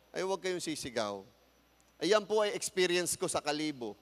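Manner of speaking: usual speaking voice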